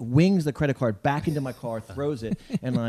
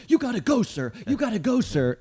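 high-pitched, pleading imitation; mock panicking attendant; 10 semitones higher than usual. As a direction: jump up high on each "gotta go", drop on "sir". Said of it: "he's panicking".

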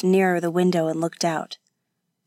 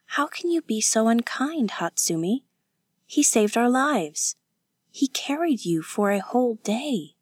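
higher, gently reproachful voice; reproachful defender; 4 semitones higher than usual. Acted. Kazuko defending their rescuer to her companion, reproachful. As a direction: plead his case with lifted pitch.

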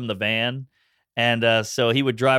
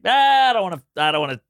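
scared whine; 2 semitones higher, 4 dB louder, faster than usual. Retold or imitated. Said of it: "I'm too scared".

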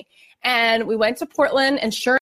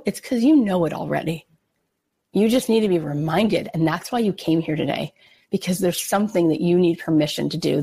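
calm, lower reassurance; 4 semitones lower than usual. Retold or imitated. Keynote speaker telling the audience they already know, calm and reassuring. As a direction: lower and unhurried, steadying the room. Addressing the thousand-strong audience.

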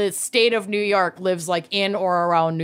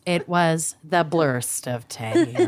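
laughing; 5 semitones lower, slower than usual. Acted. Simpsons misreading joke quoted.

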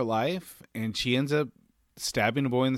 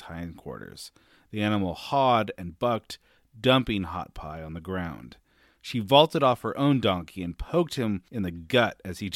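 measured audiobook-style reading; story narration; 3 semitones lower than usual. A narrator's reading. Co-host reads the fight passage to the professor, story narration. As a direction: read the passage aloud as a storyteller.

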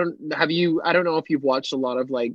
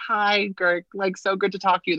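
normal friendly chat; 4 semitones higher than usual. Retold or imitated. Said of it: "like, normal. Like, if you're just like".

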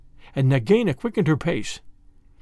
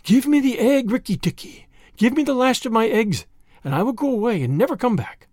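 higher-pitched, urgent bargaining; pleading; 5 semitones higher than usual. Acted. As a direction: beg for the last egg with mild desperation. Snake begs for her egg.

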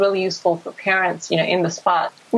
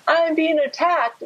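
panicked inner voice; 8 semitones higher, slower than usual. Retold or imitated. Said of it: "you aren't so lost in".

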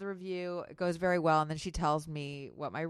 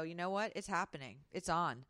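calm acceptance; 4 dB quieter than usual. Pretend. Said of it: "What if you are able to, in the moment, go".

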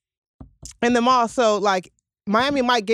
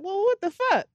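imitated shock; 10 semitones higher, 3 dB quieter than usual. Retold reaction to bodyguard's gun.

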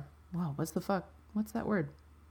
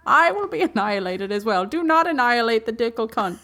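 put-on very old man; 6 semitones higher, 3 dB louder than usual. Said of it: "Can you be Professor Dicklecunt real quick".

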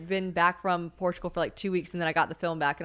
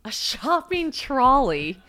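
slow, higher mock British echo; mock British accent; 5 semitones higher, 4 dB louder, much slower than usual. American teasing his British term, mock British accent. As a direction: echo it in playful, drawn-out British. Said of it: "Now it sounds like Harry Potter".

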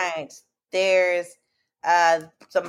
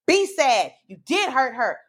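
lightly raised gloating encouragement ending in a shout; excited cheering; 3 semitones higher, slower than usual. Retold or imitated. Telling the TV hero to apologize, excited gloating. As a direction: relish his remorse, then cheer. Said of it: "I'm so excited about it".

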